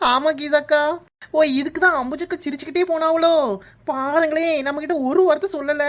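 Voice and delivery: high, animated chatter; excited realisation. Acted. Friend realises why the elders were smiling, excitedly. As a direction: pipe up high as it dawns.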